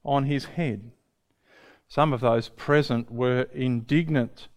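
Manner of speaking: measured, earnest Bible reading; scripture reading. Acted. Preacher reading Mark fourteen to the congregation, measured. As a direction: read the passage to the congregation. Reads the gospel passage.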